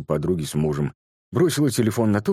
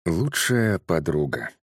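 медленно, с весом, как название; объявить название рассказа; заголовок; much slower than usual. A narrator's reading. (медленное чтение заголовка)

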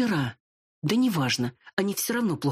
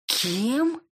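higher, bristling what; 8 semitones higher than usual. Acted. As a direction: snap back offended. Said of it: "ощетинилась я".

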